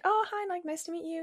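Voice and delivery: high-pitched retold hello; polite greeting. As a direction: greet a new acquaintance politely. Retells greeting on being introduced.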